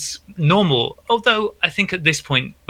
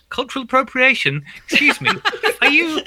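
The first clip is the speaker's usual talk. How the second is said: higher, affronted, mock-offended Brit; indignant British person; 3 semitones higher than usual. White middle-class British person protesting to a friend, mock indignant and higher. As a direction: pretend to be a put-out middle-class Briton taking offence. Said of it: "British person who can go".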